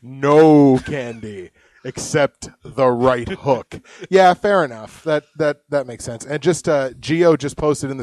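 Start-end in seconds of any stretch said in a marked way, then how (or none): 0.0-3.8 mock threat. Host plays along with guest's bit.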